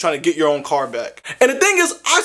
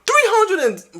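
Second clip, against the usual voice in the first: high, disbelieving squeal on the price; shocked squeal; 14 semitones higher than usual. Retold or imitated. Narrator recalling the tow fee, shocked squeal. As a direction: blurt the number like it hurts.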